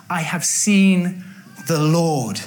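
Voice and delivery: slow, low and breathy; hushed awe. Acted. Mary tells the disciples her news, slow hushed awe. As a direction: let it out slowly with wonder.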